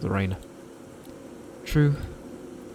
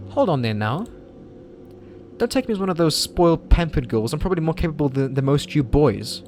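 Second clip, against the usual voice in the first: put-on higher, proud girl's voice; indignant young woman; 5 semitones higher than usual. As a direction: push back, a little offended. Girl character, indignant.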